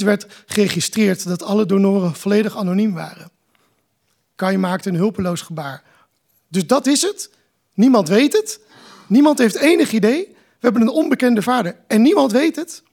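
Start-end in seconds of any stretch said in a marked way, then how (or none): 6.5-12.8 distraught outburst. A narrator's reading. Son's outburst at unknown father.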